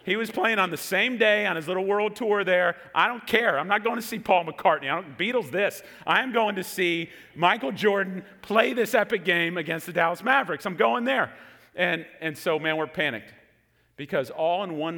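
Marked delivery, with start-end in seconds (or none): 2.9-11.3 insistent, higher-pitched mock protest; indignant refusal. Teen refusing to see the wrong concert, mock indignant. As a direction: dig in stubbornly, pitch raised.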